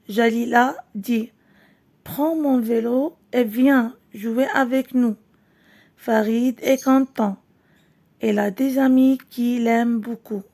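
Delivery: slow, clear storybook reading for pupils; reading to children. Acted. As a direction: read it out gently to the class, word by word. Teacher reads story to class.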